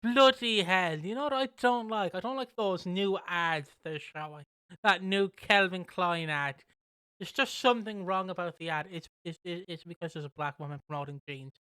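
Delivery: grouse like a bigoted grandparent at dinner; lightly voiced grumpy granddad. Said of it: "your granddad or granny ... being like".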